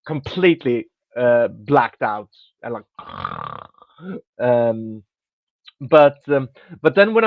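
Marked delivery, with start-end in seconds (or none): 2.9-3.6 long exhale mimicking passing out; imitated crash-out sigh. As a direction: breathe out as if blacking out. Acts out blacking out.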